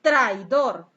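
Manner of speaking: "Traidor" as a loud, emphatic exclamation; "Traidor" exclaimed with extra force. Shown as a demonstration. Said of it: "mayor énfasis en la entonación exclamativa".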